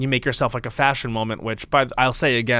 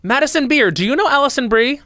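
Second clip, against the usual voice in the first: high, loud eager introduction; bright party introduction, louder; excited; 11 semitones higher, 3 dB louder than usual. Retold or imitated. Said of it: "my favorite sentence I've ever said".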